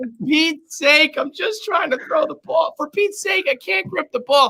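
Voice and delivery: very high, fast, cracking, trembling, quivering voice. Mocking a man who says he can't grip the ball, imitating his quivering, breaking voice. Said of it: "his voice quivering and literally breaking".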